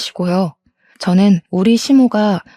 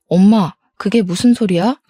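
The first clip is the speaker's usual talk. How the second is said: lightly acted annoyed son; mildly irritated protest to mother. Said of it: "하면서 짜증을 확 냈어요". (살짝 짜증 섞인 말투로)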